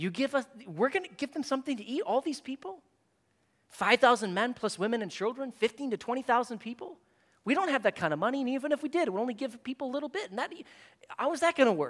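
acted-out sarcastic tone. Retelling the disciples' reply to Jesus: imitating the disciples' sarcasm. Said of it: "the disciples respond shockingly with sarcasm".

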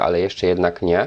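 ordinary talk

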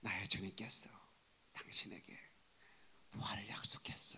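soft, very hushed, secretive whisper. A preacher shows how people tell a mysterious secret, whispering. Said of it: "신비한 비밀을 얘기할 때 이렇게 하잖아요".

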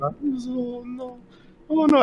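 very high, very slow panicked wail, stretched oh. Voicing a frightened character who starts to panic: screaming in panic. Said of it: "He starts screaming".

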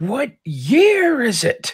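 very high, very slow, loud, drawn-out yell. Interjecting in character to the guards: yelling. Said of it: "I'm gonna yell".

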